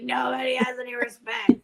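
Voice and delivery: put-on whispered cranky old-lady grumble; grumpy grandma whisper. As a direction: hiss it like a crabby grandma. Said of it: "I sound like a freaking grandma".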